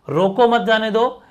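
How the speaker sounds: "रोको मत जाने दो" run together without a break; non-stop, no pause. Shown as a demonstration. Teacher shows the normal sentence, saying "रोको मत जाने दो" without pausing. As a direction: link every word from "रोको" to "दो". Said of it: "non stop बोल रहे हैं बिना रुके".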